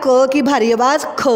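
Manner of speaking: ख said with a strong breathy puff; heavy kh. Shown as a demonstration. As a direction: push air on ख. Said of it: "इसकी भारी आवाज़ जो है".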